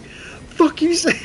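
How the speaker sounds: high, slow mock snarl; slow high challenge; drill sergeant. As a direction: drawl it like a menacing drill sergeant. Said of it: "he was like".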